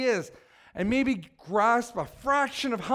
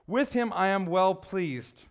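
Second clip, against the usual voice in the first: a touch of the Father's voice. Acted. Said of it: "a voice from heaven said".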